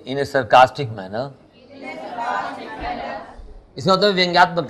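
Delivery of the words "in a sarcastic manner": slow, every word spaced out; slow dictation. Shown as a demonstration. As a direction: dictate it for students to write. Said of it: "बोलिए". (धीरे-धीरे बोलकर लिखवाना)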